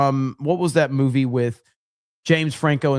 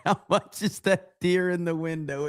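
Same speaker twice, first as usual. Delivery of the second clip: laughing; 4 dB quieter than usual. Real, not acted. Laughing at super chat.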